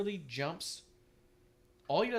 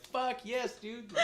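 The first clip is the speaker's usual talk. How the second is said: excited cheer; 8 semitones higher, slower than usual. Retold or imitated. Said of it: "I was all like".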